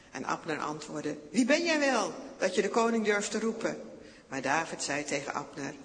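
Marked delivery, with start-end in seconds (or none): 1.3-3.8 loud, high, offended challenge; indignant shout. A narrator's reading. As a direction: bark back at the stranger in the night. Abner shouts back at David.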